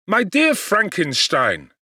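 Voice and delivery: a lightly voiced young friend, glad and eager; Clerval's eager greeting. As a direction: call out to him, overjoyed to see him.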